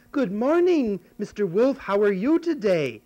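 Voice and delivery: put-on high, loud little girl greeting; Little Red Riding Hood. Red Riding Hood greeting the wolf, high and bright. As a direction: chirp it like a sweet little girl.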